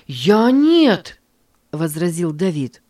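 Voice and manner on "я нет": protesting. Acted. Давид возражает в ссоре.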